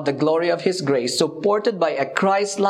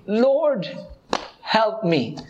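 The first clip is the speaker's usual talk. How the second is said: pleading woman; 4 semitones higher, much slower than usual. Retold or imitated.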